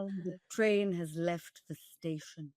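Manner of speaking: light imitation of a British friend's accent; a hint of a posh British friend, said softly; understated British accent. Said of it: "in her British accent".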